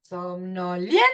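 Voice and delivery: SOMNOLIEN rising sharply at LIEN; stressed syllable demo. Shown as a demonstration. Teacher repeating to locate the E, stress on LIEN. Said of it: "la E".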